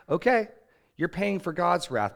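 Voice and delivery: shouted high and loud, hurling the words; angry shout. Retold or imitated. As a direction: yell it like you're throwing the stone. Angry man stoning sinner, shouting.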